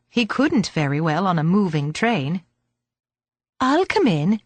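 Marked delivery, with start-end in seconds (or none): 3.6-4.4 put-on girl voice. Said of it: "she temporized".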